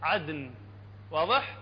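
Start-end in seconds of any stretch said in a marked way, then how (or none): 0.0-0.5 عدن low, د struck like a drum; percussive, low عدن; drum-tap Dal. Shown as a demonstration. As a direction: knock out the د in عدن, let ن ring. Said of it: "كأنما جاي تطرق طبلة".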